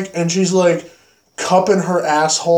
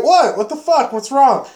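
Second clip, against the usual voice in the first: mock innocent girl; 8 semitones higher than usual. Girl playing innocent to friends.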